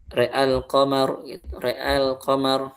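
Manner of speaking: re'ash syams with only the ro bent to e; re'ash syams, ra leaning to e, then plain a; connected reading re'ash syams; imalah on ro only. Shown as a demonstration. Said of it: "Gimana bacanya?".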